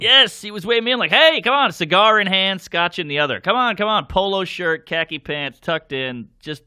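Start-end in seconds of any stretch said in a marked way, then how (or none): 1.1-1.7 high, loud beckoning call; a hint of a cigar-toting host; eager host calling him in. Host waving him in, acted. 3.4-4.1 a hint of a cigar-toting host; eager host calling him in. Host beckoning again.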